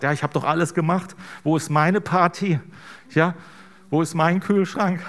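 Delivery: hammed-up sulky sibling demanding his party; complaining older son. Preacher voicing the older son who complains to the father, mock whining. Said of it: "der immer zu Hause war und sagt".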